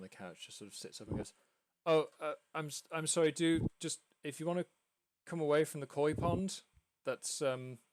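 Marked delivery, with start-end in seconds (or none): 1.9-7.8 louder, higher, flustered interruption; lightly acted awkward host; apologetic homeowner. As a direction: call over with a stammered apology. Homeowner apologises, calling visitor away.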